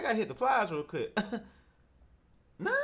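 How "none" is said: laughing through a rising none; can't believe it, laugh it out; laughing disbelief. Real, not acted. Host laughing at the guest's answer, incredulous.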